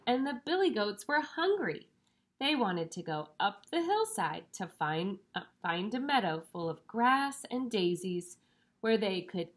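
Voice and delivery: put-on lively, measured read-aloud to children; storybook reading. A narrator's reading. Reading a picture book to young children, storybook voice. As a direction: read it out with lifted, emphasized key words.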